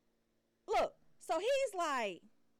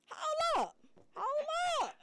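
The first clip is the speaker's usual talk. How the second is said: sharp hold up; 11 semitones higher than usual. Real, not acted. Interrupting loudly.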